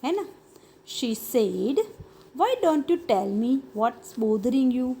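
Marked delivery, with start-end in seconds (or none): 2.4-4.9 slow reading. Shown as a demonstration. Teacher reads mother's question slowly.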